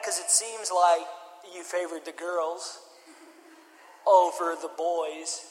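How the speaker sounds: slow, low, quiet mock accusation; drawn-out, hushed acted reproach; pointed accusation. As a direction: lay out the charge slowly and softly. Acted confronting mom over favoritism.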